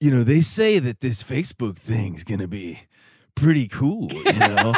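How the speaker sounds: put-on dramatic country star voice. Retelling a funny video he posted launching his Facebook page, imitating a country singer dramatically. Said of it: "making fun of his video".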